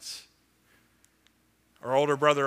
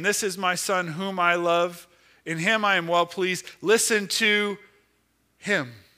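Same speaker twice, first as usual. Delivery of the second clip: voice of the Father; 5 semitones higher, 5 dB louder than usual. Acted. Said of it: "The Father is saying".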